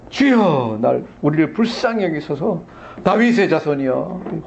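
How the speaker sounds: drawn-out call easing into a plea; acted cry, strongest on the first word. Blind man afraid of going unheard, mild acted cry. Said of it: "혹시 안 들릴까 봐 더 소리를 질러요".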